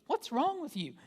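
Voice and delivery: high, loud self-scolding; scolding myself. Retold or imitated. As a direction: snap at yourself like a frustrated parent. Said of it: "It's just like".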